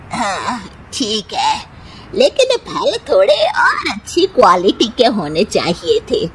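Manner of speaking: unimpressed mother-in-law finding fault with the gifts; grudging mother-in-law complaint. Acted. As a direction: accept it grudgingly, then snap about the fruit.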